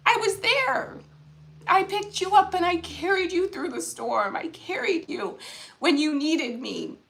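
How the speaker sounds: high and moved, easing down at the end; emotional retold reply. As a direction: retell a comforting answer while close to tears. Retells God's reply, emotional.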